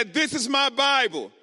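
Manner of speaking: loud, firm group declaration; rally the congregation with a loud declaration. Shown as a demonstration. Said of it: "y'all can do better than that".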